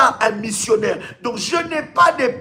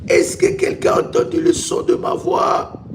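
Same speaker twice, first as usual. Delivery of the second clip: calling out; 8 semitones higher than usual. Acted. Preacher calls out to congregation.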